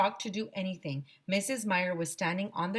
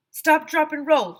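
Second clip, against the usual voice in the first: high, loud eager chant; kid shouting; 9 semitones higher, 10 dB louder than usual. A narrator's reading. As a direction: yell it proudly. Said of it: "shouted Neil".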